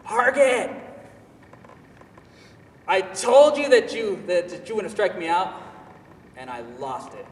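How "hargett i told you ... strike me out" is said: high, loud mocking jeer; loud, high taunt of a cocky rival hitter. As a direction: sneer it at him from first base. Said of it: "I hear him say".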